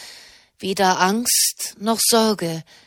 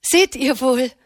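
cheerful; 3 semitones higher than usual. A narrator's reading. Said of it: "sagte Katharina fröhlich".

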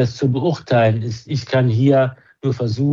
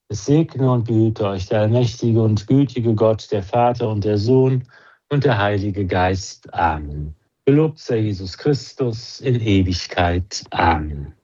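spoken blessing; 2 semitones lower than usual. Acted. Priest blessing the listeners at the close, in a measured liturgical tone.

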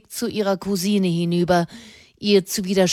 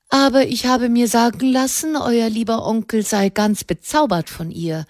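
spiteful; 5 semitones higher, 3 dB louder than usual. Acted. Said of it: "bemerkte Miramont hämisch".

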